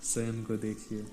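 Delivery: calm meditation guide, long pauses between phrases; guided meditation. Real, not acted. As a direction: ease them into stillness, leaving space after each instruction. (शांत ध्यान निर्देश, ठहर-ठहर कर)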